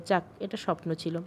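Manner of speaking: low, soft murmur of relief; relieved. A narrator's reading. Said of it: "একটা স্বস্তির নিঃশ্বাস ফেলে বলল". (স্বস্তিতে নিচু, নরম গলায়)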